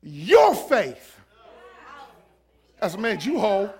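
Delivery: said in plain astonishment, not solemn; shocked. Acted. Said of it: "you gotta understand how he said it".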